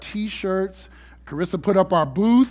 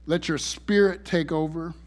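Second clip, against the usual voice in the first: prayer. Acted. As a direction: pray it humbly and earnestly. Leads a prayer.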